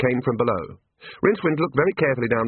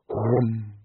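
short imitated drone; imitated hum. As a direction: hum like a whirled bull roarer. Bull roarer noise imitated.

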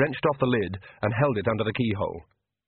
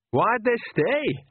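puzzled Nanny; 12 semitones higher, much slower than usual. Acted.

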